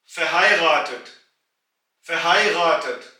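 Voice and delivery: फहायगातत said slowly as German fe-hai-ga-tat; German word demo. Shown as a demonstration. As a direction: spell out फहायगातत clearly, German style. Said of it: "और तीसरा लफ्ज". (German उच्चारण में फहायगातत धीरे से)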